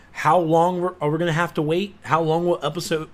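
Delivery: ordinary delivery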